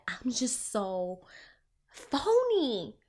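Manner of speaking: slow, then "phony" pitched high in a put-on voice; mock self-disdain. Voicing her inner critic while being praised, mock-disdainful. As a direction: draw it out, then sneer the last word at yourself.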